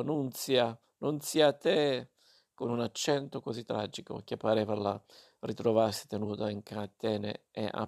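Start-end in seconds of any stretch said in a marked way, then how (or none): 0.0-2.1 tragic cry. Acted. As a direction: wail it like a lost child found. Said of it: "le gridò".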